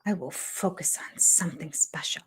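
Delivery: quiet, falling mock echo of the line; mock repetition. Teasing a cast member by echoing his advice. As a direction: repeat it softly, teasing. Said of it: "Things are special".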